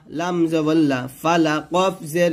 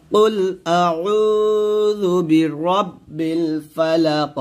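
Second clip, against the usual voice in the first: slow Quranic chant; slow recitation; much slower than usual. Shown as a demonstration. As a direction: recite slowly, each syllable drawn. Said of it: "এরকম একসাথে".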